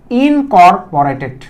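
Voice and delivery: ইনকর্পোরেটেড spelled out slowly, every syllable drawn apart; slow new word. Shown as a demonstration. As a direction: say ইনকর্পোরেটেড slowly so students can catch each sound. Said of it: "নতুন একটা শব্দ দিচ্ছি". (ইনকর্পোরেটেড ধীরে ধীরে প্রতিটি অক্ষর আলাদা করে)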